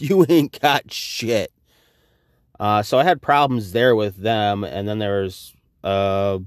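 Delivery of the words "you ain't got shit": slow, drawn-out "You ain't got shit." with mockery; slow mocking retort.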